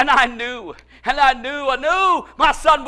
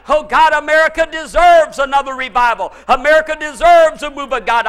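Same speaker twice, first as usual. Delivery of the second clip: loud, insistent mock prayer; crying out; 2 semitones higher, 6 dB louder than usual. Preacher acting out a prayer he rejects for America, crying out. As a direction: demand it from God in a raised voice. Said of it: "I have been crying".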